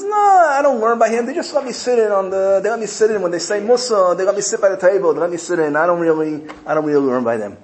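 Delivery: humble disciple brushing off praise in a high voice; humble Naftali. Retold or imitated. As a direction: shrink yourself, high and self-effacing. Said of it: "He says".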